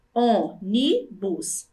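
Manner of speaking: slow, separated syllables in "ônibus". Shown as a demonstration. Teacher repeating three syllables for pupils, each separated. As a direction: leave a gap after each syllable of "ônibus". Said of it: "Três sílabas".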